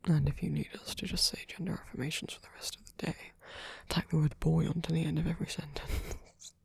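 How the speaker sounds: close, fussing, affectionate comfort; tender caretaker. Acted. Caretaker soothing a poor boy who feels like garbage, tender. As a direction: comfort them with gentle teasing.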